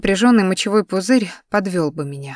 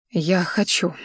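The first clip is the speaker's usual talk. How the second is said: softer, a hint of a crack; broken voice; 4 dB quieter, slower than usual. A narrator's reading. Girl quietly agrees to stay, voice mildly breaking. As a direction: let the voice give a little. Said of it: "каким-то надломленным голосом".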